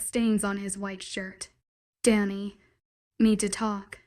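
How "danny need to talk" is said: put-on drunk slurring. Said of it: "he slurred".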